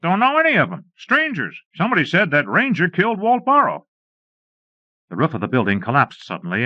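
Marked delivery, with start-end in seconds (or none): 0.0-3.9 lightly voiced, higher worried townsfolk; a hint of an anxious bystander asking; higher, lightly played townsman. Townsmen answering in the street.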